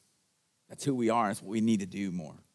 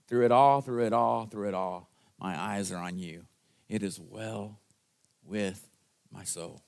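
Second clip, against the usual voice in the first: quoted hymn; 3 semitones lower than usual. Retold or imitated. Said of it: "earlier we were singing".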